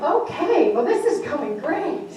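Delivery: slow, drawn-out mock cheer; amused, stretched-out irony; wry sarcasm. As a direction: say it as if all is lost. Wry reaction to being dismissed.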